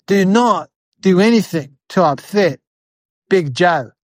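slow, deliberate uncle's warning; grave warning. Acted. Uncle warns nephew about Big Joe, grave warning. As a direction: spell out the warning slowly, with pauses.

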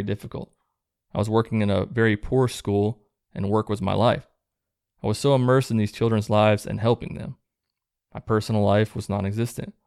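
measured read-aloud of a personal testimony. Acted. Host reads out a listener's deconversion story, reading aloud. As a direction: read a written story out, evenly paced.

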